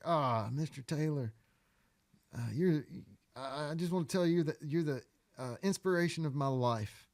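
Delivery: eager, breathless fan gushing; starstruck gushing. Retold or imitated. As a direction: gush at your hero, a little high. Starstruck fan meeting his idol.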